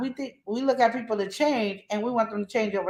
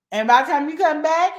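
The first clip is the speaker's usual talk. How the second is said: normal talking voice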